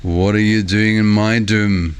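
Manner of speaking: drawn-out, half-fake Scottish growl of Shrek; lightly put-on Scottish accent, slow. Streamer quoting Shrek to viewers, slow mock Scottish accent. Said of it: "reading it in a kinda half fake Scottish accent".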